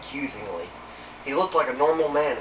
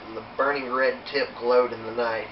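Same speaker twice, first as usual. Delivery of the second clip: plain reading voice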